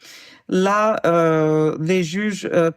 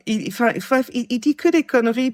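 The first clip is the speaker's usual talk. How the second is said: exasperated; 5 semitones higher, faster than usual. Real, not acted. Exasperated about the liar.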